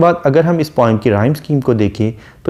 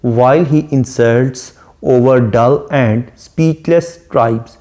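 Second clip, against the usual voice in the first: poem recitation; much slower than usual. Shown as a demonstration. Reciting the sonnet line slowly.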